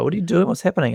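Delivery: the band's startled question as the song begins; confused band members. Retold or imitated. Mock bewildered musicians asking. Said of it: "and they were like".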